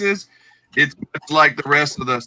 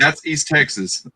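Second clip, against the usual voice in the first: East Texas twang; slower than usual. Retold or imitated. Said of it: "he's like".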